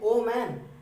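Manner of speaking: called out. Retold or imitated. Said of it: "दूर से ही चिल्ला के बोलता है".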